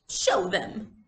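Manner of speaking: sharp little order; commanding child. Acted. Little girl to her mother, commanding. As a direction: boss the mother about. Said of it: "she commanded".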